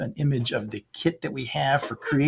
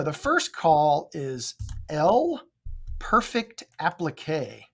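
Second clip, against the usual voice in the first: slow drawn-out bingo call; bingo caller; slower than usual. Shown as a demonstration. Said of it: "bingo caller".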